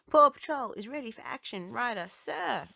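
loud, high keen reporting voice; eager report. A narrator's reading. Chase reporting the team ready to Ryder, loud and high. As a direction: report for duty with gusto. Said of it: "says Chase".

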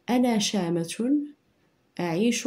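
put-on slow, deliberate dictation read for children to write; measured dictation pace, word by word. Shown as a demonstration. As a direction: read each phrase slowly for dictation. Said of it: "لاحظوا معايا الحروف".

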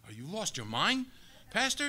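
mock disbelief at the pastor; shocked congregant. People reacting to the pastor, mock shocked disbelief. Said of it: "people looked at me like".

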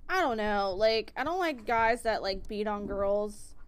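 loud, firm and emphatic. Real, not acted. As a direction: stress the disapproval. Emphatic opinion on abusers.

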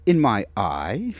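slow, dry, teasing question; a lightly droll foreign-tinged question. Acted. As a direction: play it deadpan and amused. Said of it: "He was being droll".

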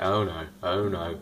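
slow, lightly voiced fretful Doctor; the Doctor fretting. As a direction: back away muttering in mock dismay. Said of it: "And the Doctor's like".

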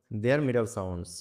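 very slow, word by word; slow reading. Shown as a demonstration. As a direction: drag out each word for pupils. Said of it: "teacher repeats phrase slowly". (খুব ধীরে, শব্দে শব্দে বলা)

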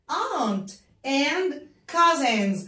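very slow aunt and cousins; slow model words. Shown as a demonstration. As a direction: stretch the words so children can follow. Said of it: "بنراجع عليها تاني".

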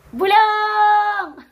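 high, loud shout of Bulong; shouted whisper word. Shown as a demonstration. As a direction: belt out Bulong as a joke. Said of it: "sumigaw ng pabulong". (isigaw ang "Bulong!" nang malakas at mataas)

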